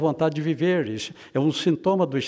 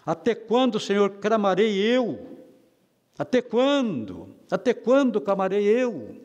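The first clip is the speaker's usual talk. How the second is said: crying out; 3 semitones higher than usual. Retold or imitated. The preacher voices Habakkuk crying to a God who seems deaf, crying out. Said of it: "Ele está clamando".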